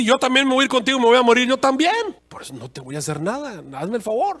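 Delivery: el alacrán insiste, subiendo hasta casi gritar; alacrán persuasivo. Acted. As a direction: convence a la rana con urgencia creciente. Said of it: "el alacrán le dijo". (el alacrán convence a la rana, cada vez más fuerte)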